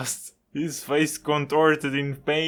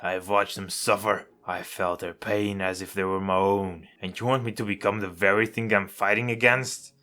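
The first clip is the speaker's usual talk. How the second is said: snarling intensity; 6 semitones lower than usual. Acted. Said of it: "his face twisted in a snarl".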